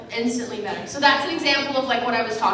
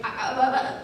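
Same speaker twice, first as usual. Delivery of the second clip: imitated sobbing; 10 semitones higher than usual. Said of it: "I just started sobbing".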